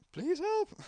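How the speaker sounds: high, strained begging voice; pleading old man. Acted. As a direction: plead weakly for help. Old man begs for help.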